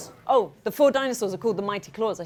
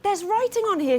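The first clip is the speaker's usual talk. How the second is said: surprised; 10 semitones higher than usual. Acted. Truly discovers writing.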